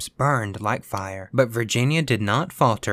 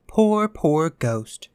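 slow, higher-pitched pity; pitying murmur; 6 semitones higher, 3 dB louder, much slower than usual. A narrator's reading. Virginia pitying the sleepless ghost, a tender murmur. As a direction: draw out the words with gentle sympathy. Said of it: "she murmured".

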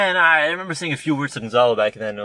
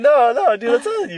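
high, loud protesting; mock insistent; 12 semitones higher, 10 dB louder than usual. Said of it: "You're like".

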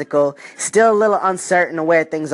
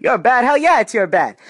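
higher and louder, mock outrage; louder outraged retort; 6 semitones higher, 3 dB louder than usual. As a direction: throw it back at him, indignant.

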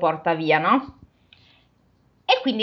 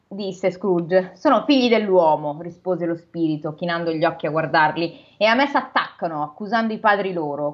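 measured storybook reading voice; steady read-aloud narration; story narration. A narrator's reading. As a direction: read it like a classic novel aloud. Reads the novel aloud.

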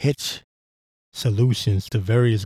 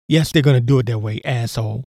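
exasperated retort. Real, not acted. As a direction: snap back at the naive question. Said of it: "do you really think they're gonna do it that way?".

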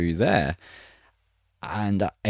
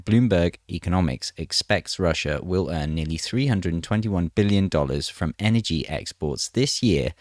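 measured news-reading delivery; article read aloud. Acted.

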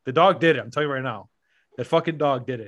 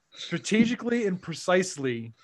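slow, higher, mock precise description; mock formal; 3 semitones higher than usual. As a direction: savour each word like a report.

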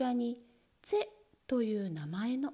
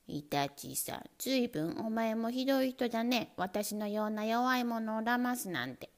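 whiny mouse voice. Acted. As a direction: whine like a wronged mouse. Mouse accuses weasel.

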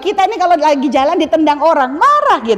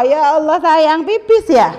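tender laugh; 3 semitones higher, slower than usual. Retold or imitated. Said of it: "Itu malah ketawa".

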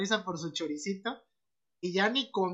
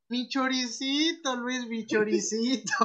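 mock lament; 4 semitones higher, slower than usual. Friend mourning his eaten sausage.

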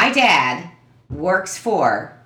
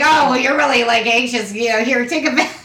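high mock mom voice, a touch higher; imitating mom; 5 semitones higher, 3 dB louder than usual. Daughter mimicking her mom pushing Valium, high mock voice. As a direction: play the fussing mother offering pills. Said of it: "she'd be like".

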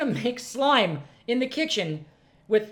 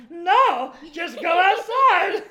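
high, loud, slow firm order; self-imitation telling kids to go outside; mock stern mom; 10 semitones higher, 4 dB louder, much slower than usual. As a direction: send the kids outside, drawn out. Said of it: "And I'm like".

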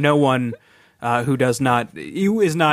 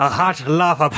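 mock Canadian accent. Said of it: "adapted the accent".

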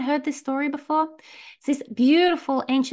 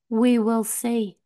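put-on calm old man; 2 semitones lower, slower than usual. Old man's calm reply.

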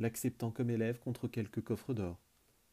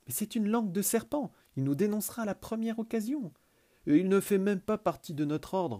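high, loud indignant protest; 9 semitones higher, 5 dB louder than usual. Acted. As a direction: object loudly. Children protest against Mignotis. (protestation forte et aiguë)

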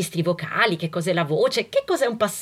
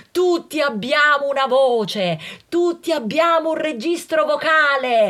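insistent; 5 semitones higher, 3 dB louder than usual. Real, not acted. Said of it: "Lo volete capire".

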